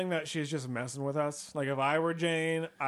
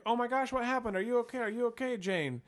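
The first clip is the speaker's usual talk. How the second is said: concerned; 10 semitones higher than usual. Retold or imitated. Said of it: "And we're like".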